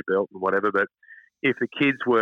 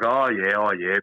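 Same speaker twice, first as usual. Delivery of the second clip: doubtful, humouring tone, not buying it; sceptical oh yeah; slower than usual. Retold or imitated. Telling how he doubted Carl's promise, sceptical. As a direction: brush off a mate's empty promise. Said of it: "so I was like".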